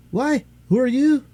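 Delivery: high, indignant nurse; offended nurse. Acted. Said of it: "offended at the freedom".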